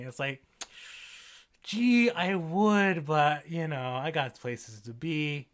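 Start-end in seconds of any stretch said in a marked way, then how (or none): 1.6-5.5 slow, drawn-out mock regret; Captain Marvel refusing to help Thor, sarcastic; sarcastic brush-off. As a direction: fake sympathy, then shrug it off.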